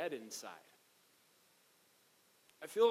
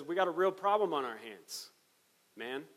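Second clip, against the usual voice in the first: mock emperor in laid-back slang, a bit louder; Julian as a casual modern guy; 2 semitones higher, 6 dB louder than usual. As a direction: play the emperor as a chatty dude. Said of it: "He doesn't talk like that".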